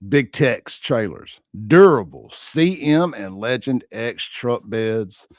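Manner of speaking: slow, loud ad-read announcer; rodeo announcer voice. Shown as a demonstration. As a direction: announce each brand from the belly. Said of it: "rodeo announcer voice".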